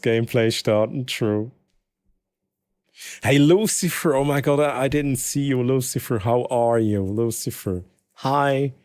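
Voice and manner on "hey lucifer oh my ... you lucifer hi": excited greeting. Real, not acted. Greeting pet on stream.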